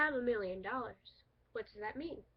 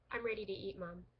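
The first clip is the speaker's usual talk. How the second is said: "I'm ready to eat Mom" read straight through without a break; no pause; 2 semitones lower than usual. Shown as a demonstration. Teacher reading the no-comma sentence without a pause. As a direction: run it together in one breath. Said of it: "without a pause".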